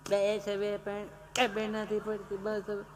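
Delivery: soft, slow mumbled hushing; lightly voiced father quieting a crying child; mock soothing father. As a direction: hush the child half-heartedly, barely audible. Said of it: "એટલે આમ".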